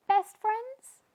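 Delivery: high, loud joyful; delighted to be friends; happy question. Acted. Both fish asking together, delighted.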